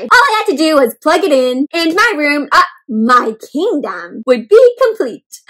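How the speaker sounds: a couch potato dreaming of his kingdom; a lightly hammed-up couch potato king; grandiose couch potato. Couch Potato's lines in book.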